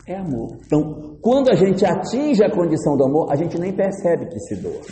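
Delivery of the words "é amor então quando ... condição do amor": usual speaking voice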